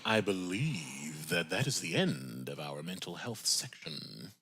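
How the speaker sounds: slow, low, soft presenter register; code-switched voice. Real, not acted. Host closing the mental health section, semi-code-switched voice. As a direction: slip into a measured, formal hosting voice. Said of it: "in semi-code switch voice mode".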